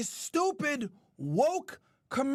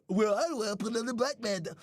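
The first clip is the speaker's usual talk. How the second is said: mock a rapper; 7 semitones lower than usual. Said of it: "Kendrick be say".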